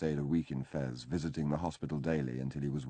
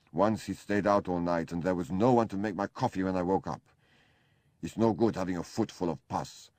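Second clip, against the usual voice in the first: a lightly voiced sulky German invalid, a little louder; whining Kurt; 2 semitones higher, 3 dB louder than usual. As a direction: complain like a needy sick man. Kurt speaks, complaining.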